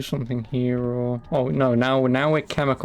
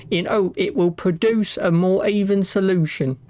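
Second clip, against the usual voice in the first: put-on Victorian accent; 3 semitones higher than usual. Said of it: "my ye olde Victorian accent".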